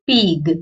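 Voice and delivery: पीग said flat and bare; without bindi. Shown as a demonstration. Teacher shows पीग without bindi, no nasal. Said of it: "दोनों में फर्क पड़ रहा है".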